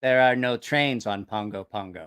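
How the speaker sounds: low, deliberate simple-man voice; Paulo. Retold or imitated. Paulo telling a shipmate about his island, low earnest imitation. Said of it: "He's like".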